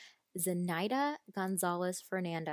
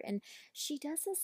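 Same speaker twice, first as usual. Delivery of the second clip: ordinary delivery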